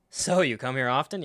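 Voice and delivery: breezy pick-up-line small talk; mock casual. Mimicking how the greeting to Iroh sounded, mock casual. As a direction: toss it off like idle chit-chat. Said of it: "the casual".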